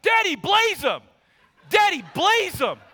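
mock-shout it like a kid in the back seat; kid screaming. Son in the back yelling at dad, imitated shout. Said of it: "screaming the whole time".

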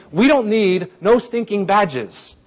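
proudly defiant, each word punched; defiant punchline. Acted. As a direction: deliver it as a big punchline. Punchline paraphrase of Paul's defiance.

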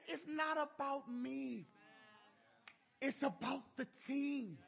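sincere son. Retold or imitated. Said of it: "He said".

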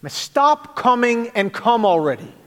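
exasperated father, mock Jamaican accent; fed up, a touch of a Jamaican accent. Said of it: "in that great Jamaican accent of his".

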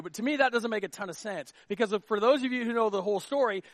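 ordinary talk, nothing marked

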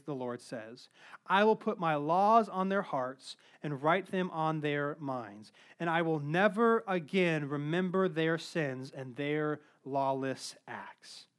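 measured, reverent Bible reading to the church; scripture reading. Acted. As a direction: read the verses with weight. Reads Hebrews to the congregation.

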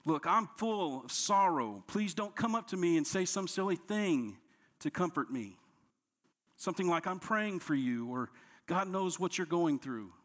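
a hint of a sulky griever telling friends off; mock self-pitying demand. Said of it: "He doesn't dictate how others are to console him".

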